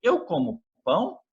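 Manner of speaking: "Eu como pão" with a rising end; question intonation. Shown as a demonstration. Teacher demonstrating Portuguese question intonation, "pão" rising as a question. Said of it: "essa entonação de interrogação".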